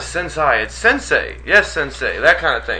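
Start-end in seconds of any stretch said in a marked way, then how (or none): 0.0-0.6 sensei echoed as sen-SIGH; mispronounced sensei. Retold or imitated. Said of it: "talking about the word sensei". 0.6-2.2 sensei said as sen-SAY; firm correction, sensei rhyming with "say". Retold or imitated. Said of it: "I said, "What are you talking about".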